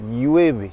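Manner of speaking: "llueve" starting with a y glide; LL comme Y. Shown as a demonstration. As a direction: say "llueve" in Spanish, ll as y. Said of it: "comme un Y". (« llueve » avec ll prononcé y)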